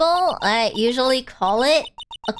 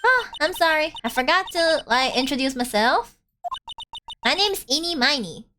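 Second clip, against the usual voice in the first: put-on Valley Girl accent. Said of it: "I get to use my Valley Girl accent".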